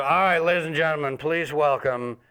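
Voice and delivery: mock MC introduction rising to the name; announcer intro. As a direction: hype up the opening act like an MC. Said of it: "so the guy goes".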